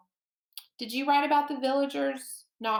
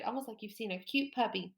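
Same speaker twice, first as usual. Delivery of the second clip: soft aside; 6 dB quieter, faster than usual. Shown as a demonstration.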